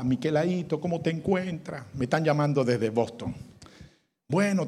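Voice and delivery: barely holding on to life; dying man on phone. Acted. A dying man calls his daughter, soft and fading.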